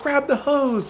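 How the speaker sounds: high, lightly voiced dad order; dad's order. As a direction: bark it as dad.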